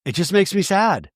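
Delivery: sighing, put-upon imitation; mock sadness. Recapper imitating housewife dodging producer's question, mock sad sigh. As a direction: heave a sigh into mock sorrow.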